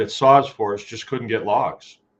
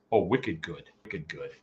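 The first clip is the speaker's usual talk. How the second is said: put-on Maine accent; 5 semitones lower, 7 dB quieter than usual. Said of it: "they have a certain accent up there".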